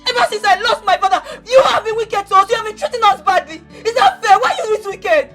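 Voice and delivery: heated tearful accusation; ranting. Acted. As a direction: pour out the grievance at uncle. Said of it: "When you are done ranting".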